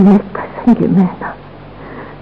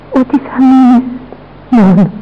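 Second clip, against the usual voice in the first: anguished cry; 3 semitones higher, 5 dB louder than usual. Acted. Dying mother cries out to son.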